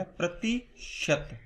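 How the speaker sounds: प्रतिशत split into प्रति and शत; word broken apart. Shown as a demonstration. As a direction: say प्रतिशत slowly in two parts, प्रति, then शत. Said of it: "इसको आप तोड़ो".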